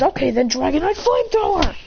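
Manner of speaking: high-pitched called-out move; attack command. Acted. Christian ordering Lycanroc to attack, high battle call. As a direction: call the attack across the field.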